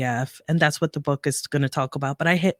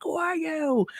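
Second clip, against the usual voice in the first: crying to herself; 13 semitones higher than usual. Retold or imitated. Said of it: "just crying, mad at myself".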